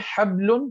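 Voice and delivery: हबलुन with b closed directly onto lun; without qalqalah. Shown as a demonstration. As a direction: say हबलुन with no echo after b. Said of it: "तो हमने गलत पढ़ा".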